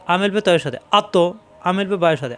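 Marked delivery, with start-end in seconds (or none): 1.0-1.1 আত with the final consonant pushed and released; bouncing qalqala. Shown as a demonstration. Teacher drilling qalqala, আত with a bouncing final consonant. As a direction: bounce off the end of আত. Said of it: "প্রত্যেকবার ধাক্কা হবে".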